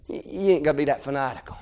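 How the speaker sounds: low, soft, halting objection; hushed discouragement. Acted. Crowd discouraging fervent prayer, hushed. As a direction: quietly talk them down, stumbling on the first words.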